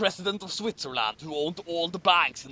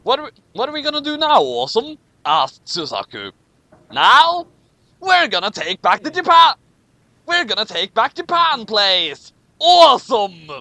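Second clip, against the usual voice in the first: rallying cry; 4 semitones higher, 9 dB louder than usual. A narrator's reading. Narrator voices heroes' rally.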